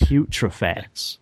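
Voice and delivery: slow, breathy, close to the mic; breathy sultry voice. Pretend. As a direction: purr the name slowly and breathily. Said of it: "Give me some more breathy".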